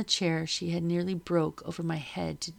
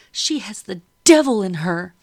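furious yell; 11 dB louder than usual. A narrator's reading. Madam swings the broom.

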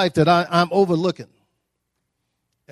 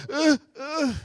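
1 mock ugly cry; 10 semitones higher than usual. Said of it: "I got the, the ugly cry going on".

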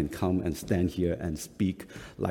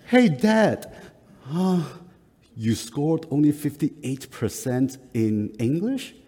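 put-on high, loud kid voice asking; voicing his son, much higher and louder; son's surprised question; 6 semitones higher, 3 dB louder than usual. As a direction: imitate the son, pitched up and amazed. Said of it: "and then he say".

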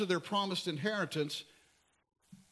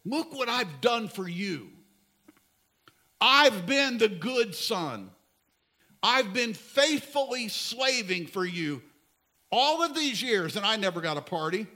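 slow, louder, pointed grievance; indignant older son; 2 semitones higher, 5 dB louder than usual. Retold or imitated. Older son complaining to his father, slow and indignant. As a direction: spell out every wrong done to him. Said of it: "He said".

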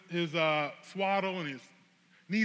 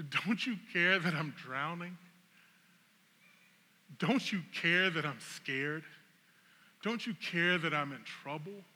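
pleading; 4 dB quieter than usual. Acted. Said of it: "I imagine if he could talk".

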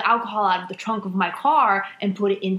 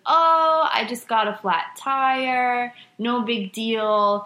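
fake casual; slower than usual. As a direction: act like it's nothing. Retold self acting casual.

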